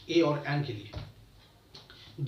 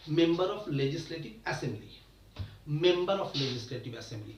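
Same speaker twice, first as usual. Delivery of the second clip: very slow, every word spaced apart; slow full form; much slower than usual. Shown as a demonstration. Teacher spelling out the full form of MLA, very slow. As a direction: spell the phrase out slowly for learners. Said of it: "full form में बोलेंगे".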